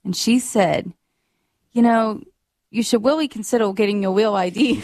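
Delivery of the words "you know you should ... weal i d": R sounds softened into W, "weally"; "real" said as "weal"; imitated speech impediment. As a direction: mimic someone who says W for R. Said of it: "she has a speech impediment".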